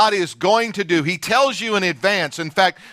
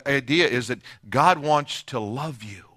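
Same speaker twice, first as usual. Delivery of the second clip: ordinary delivery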